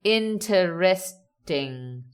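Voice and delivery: "Interesting" broken slowly into weighted syllables; slow stress demo. Shown as a demonstration. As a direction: sound out "Interesting" slowly for learners. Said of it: "The stress is on t".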